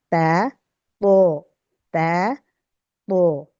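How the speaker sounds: تا thin and smooth, تو heavy with a jolt; contrasting ta and tu. Shown as a demonstration. Teacher contrasting تا and تو for students. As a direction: say تا light, then تو thick and bouncing. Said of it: "اور تو کی آپو".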